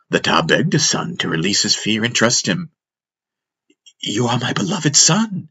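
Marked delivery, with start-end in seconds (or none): 4.0-5.5 higher-pitched fatherly plea; pleading. Acted. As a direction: plead tenderly with a beloved son. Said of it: "he pleaded".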